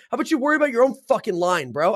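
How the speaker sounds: mock aggressive. Stranger in the bar line snapping at him, mock angry. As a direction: imitate a drunk stranger telling you off.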